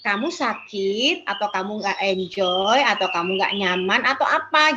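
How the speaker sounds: put-on counsellor gently asking an upset child what's wrong; gentle question to child. Shown as a demonstration.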